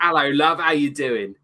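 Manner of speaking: a light put-on Cockney greeting; mock Cockney. Co-host mocking Bert's Cockney, light Cockney. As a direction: imitate a bad Cockney Bert. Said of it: "He's trying to be what we call Cockney".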